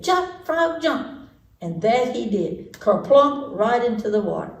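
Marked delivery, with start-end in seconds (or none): 0.0-1.3 put-on a lightly higher boy's voice; gentle high call to the frog; boy's command. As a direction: call it like the little boy. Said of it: "he said".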